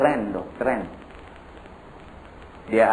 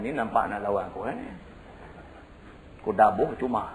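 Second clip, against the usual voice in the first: grumbling father; 6 dB quieter than usual. Acted. Bapak marah pada anak.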